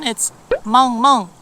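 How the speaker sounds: Korean dog bark. Shown as a demonstration. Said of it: "In Korean".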